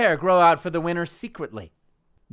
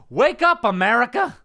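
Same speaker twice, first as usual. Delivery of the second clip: raised, high rallying call; rousing segment title; 6 semitones higher, 6 dB louder than usual. Acted. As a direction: proclaim the rant's title. Announces his rant segment title.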